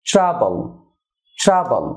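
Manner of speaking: ট্রাবল as "chra-bol", falling; correct pronunciation. Shown as a demonstration. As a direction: blend tr into "chr" in ট্রাবল. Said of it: "চড়া বা সিএইচআর". (ট্রাবল-এর সঠিক উচ্চারণ, "চ্রাবল")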